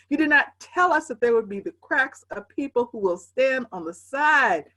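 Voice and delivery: preaching refrain. Acted. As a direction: lament to the prophet with building force.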